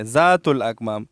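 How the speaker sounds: ذات الاکمام said as "zaatul akmaam"; mistaken buzzing z. Retold or imitated. Teacher imitating the common misreading, z for dhal. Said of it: "زا پڑھتے ہیں".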